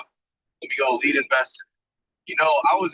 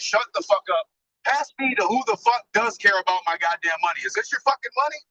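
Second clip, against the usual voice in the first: retold angry rant; 5 semitones higher than usual. Retold yelling at bank rep.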